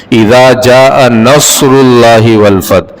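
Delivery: اذا جاء نصر اللہ والفتح recited slowly with heavy ص in نصر; slow verse recitation. Shown as a demonstration. Teacher reciting the verse correctly for the class. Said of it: "صاد کے ساتھ".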